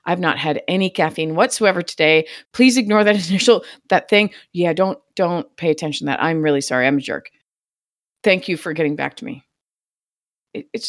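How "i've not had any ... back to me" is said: apologetic. Retold or imitated. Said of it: "I immediately send him".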